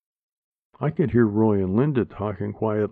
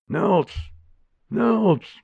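calling out; 10 semitones higher than usual. Acted. Grandma shakes him awake.

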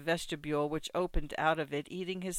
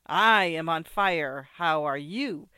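mad exhilaration; 2 semitones higher, 5 dB louder than usual. Acted. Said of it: "in a mad state of exhilaration".

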